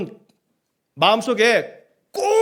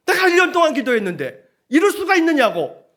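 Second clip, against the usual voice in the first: high-pitched mock protest to God; 7 semitones higher than usual. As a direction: complain with playful, hammed-up indignation. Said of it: "나 삐졌다고". (삐져서 높게 따지는 척)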